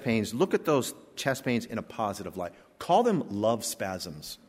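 smiling. Retold or imitated. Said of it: "he says with a smile".

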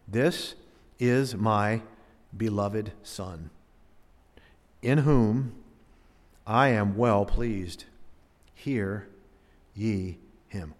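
solemn voice of God. Acted. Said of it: "a voice out of the cloud which said".

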